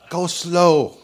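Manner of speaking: playing the interpreter telling him to go slow; imitating the interpreter. Interpreter interrupting the preacher, a mock order to slow down. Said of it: "He said".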